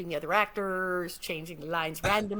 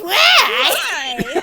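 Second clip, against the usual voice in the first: much higher, louder shrieked whine; loud mimicry of a whiny teen; mocking imitation; 11 semitones higher, 15 dB louder than usual. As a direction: throw the whine back, exaggerated. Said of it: "say the actor's line back to them and imitate them".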